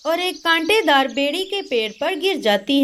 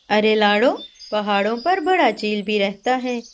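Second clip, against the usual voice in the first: low voiced neighbour; 5 semitones lower than usual. Neighbour bird warning Lado, lower voice.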